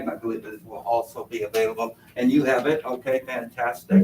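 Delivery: muffled behind a mask; through a face mask. Real, not acted. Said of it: "hopefully you can hear me through the mask".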